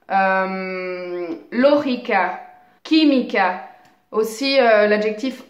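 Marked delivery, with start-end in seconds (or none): 1.5-3.6 "lógica, química", each stressed on the first syllable; antepenultimate stress. Shown as a demonstration. Teacher continues examples of esdrújulas, first syllable stressed in "lógica" and "química". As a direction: hit the openings of "lógica" and "química". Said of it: "accentués sur la troisième syllabe en partant".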